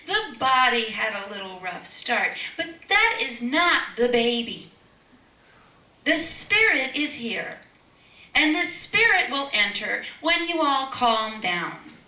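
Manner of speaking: loud, slow, preaching; impassioned. Retold or imitated. Mother telling family the spirit is here, loud and slow. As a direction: proclaim it with conviction.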